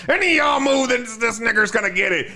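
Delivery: different voice. Retold or imitated. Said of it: "starts talking in a different voice".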